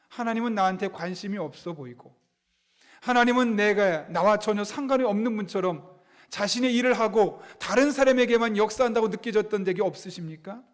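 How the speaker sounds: normal talking voice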